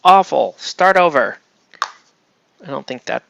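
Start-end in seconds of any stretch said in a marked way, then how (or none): 0.0-1.4 loud, high, drawn-out mock outrage; imitating a harsh critic, voice raised; the speaker's mock rejection. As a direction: reject it with hammed-up dismay. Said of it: "Unless Nelson goes".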